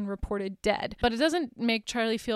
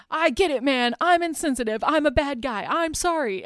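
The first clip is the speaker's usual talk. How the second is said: mock exasperated apology; 4 semitones higher than usual. Acted defensive apology, exasperated.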